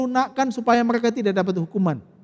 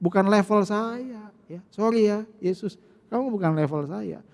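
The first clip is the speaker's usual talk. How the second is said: softer, contemptuous sneer at Jesus; belittling demon taunt; 7 dB quieter than usual. Acted. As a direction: talk down to him like a village nobody. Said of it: "cara roh jahat merendahkan Yesus".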